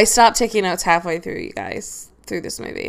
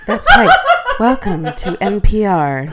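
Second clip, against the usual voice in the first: sultry radio host; 3 dB louder than usual. Pretend. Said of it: "Make love to the microphone".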